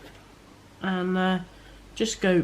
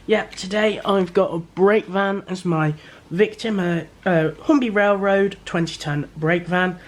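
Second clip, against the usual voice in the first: muffled, stuffy voice from a cold. Real, not acted. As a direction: talk through a head cold. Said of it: "do excuse the muffled voice".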